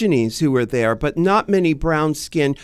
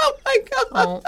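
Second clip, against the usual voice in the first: high squealing laugh; shrieking laugh; 6 dB quieter than usual. Real, not acted. Reacting to serial killer joke.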